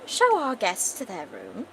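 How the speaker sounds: slow, posh command; posh queen. Acted. Posh queen orders her servant about, slow and regal. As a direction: order it slowly, in a posh accent. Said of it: "like I said, she's a posh bitch".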